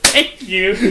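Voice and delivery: high, drawn-out, through laughter; laughing mock refusal. Barista bats away a thrown drink, laughing mock refusal. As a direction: stretch it out high while cracking up.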